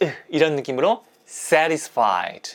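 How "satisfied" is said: punched stress on first syllable sat- in satisfied. English pronunciation lesson on satisfied, stress on sat- in satisfied. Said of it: "앞에 강세를 주면서 입을 약간 쭉 째볼게요".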